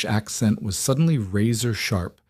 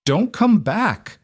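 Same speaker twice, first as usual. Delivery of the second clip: much higher, slow bellow of a bouncer; guard's grunt; 12 semitones higher, 4 dB louder, slower than usual. Acted. Security guard throwing her out, slow high bellow. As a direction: bark him off the door, slow and high. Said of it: "The guard grunted".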